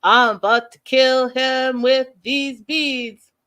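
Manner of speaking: loud, slow, seething threat; mock furious threat. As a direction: spit it out through the beads, menacing. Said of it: "she was like".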